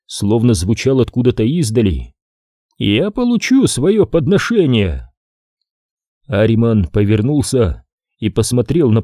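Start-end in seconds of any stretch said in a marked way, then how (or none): 2.8-5.1 distant oracle voice. Acted. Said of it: "Голос оракула ... казался далёким".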